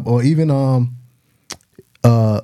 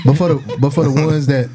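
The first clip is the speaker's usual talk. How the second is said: laughing; 2 semitones higher than usual. Real, not acted. Laughing at impression.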